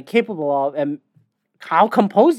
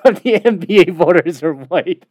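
louder put-on pundit voice, making a bold claim; mimicking a loud TV analyst; loud mock pundit impression; Kendrick Perkins impression; 2 semitones higher, 6 dB louder than usual. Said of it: "you get people like Kendrick Perkins".

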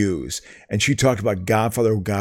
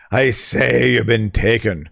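slow, hammy Scottish brogue; mock Scotsman, slow and declamatory; Scottish accent; 2 semitones lower, slower than usual. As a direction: draw it out in a pirate-like Scottish accent. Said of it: "do it like a pirate".

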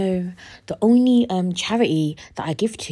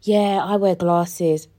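mock clueless; much slower than usual. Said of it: "they go".

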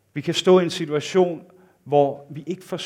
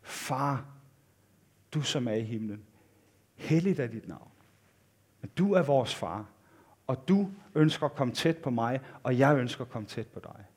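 softer, hushed words to God; prayerful address; 2 semitones lower, 6 dB quieter than usual. Acted. Preacher showing believers addressing God as Father, soft prayer. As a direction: speak quietly and directly, pausing between phrases. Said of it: "henvende os direkte til Gud og sige".

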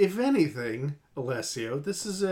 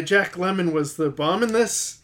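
put-on shaky grasp of a Cockney accent; attempted Cockney. Host struggling through a British listener's comment, attempted Cockney. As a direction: have a half-successful go at Cockney. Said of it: "but he's Cockney".

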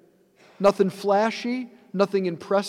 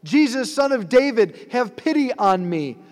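high, loud plea called across a crowd; crying out; 6 semitones higher, 4 dB louder than usual. Acted. Blind beggar crying out to Jesus, loud and high. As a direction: call out to him, begging for pity. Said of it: "he starts crying out".

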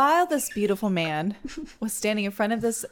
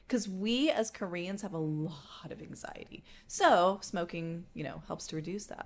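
whisper; 7 dB quieter than usual. Real, not acted. Confiding aside about Koreans.

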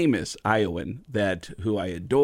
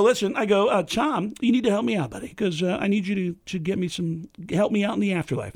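higher, pushy Kinison voice; Sam Kinison impression; 7 semitones higher than usual. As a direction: sell it as Kinison begging a favor.

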